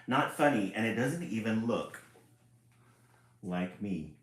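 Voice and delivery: loud huffy book voice; grumpy complaint. Acted. Book complaining about the drawing, huffy. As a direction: sulk like an offended book.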